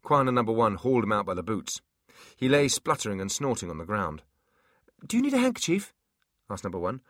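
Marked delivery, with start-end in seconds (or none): 5.1-5.9 very high squeaky imp. Acted. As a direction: innocent little imp question. Imp character voice.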